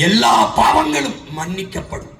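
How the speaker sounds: slow booming mock sermon cry; mock preacher proclamation. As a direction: proclaim it like a hammed-up faith healer. Parodying preacher's promise of forgiveness.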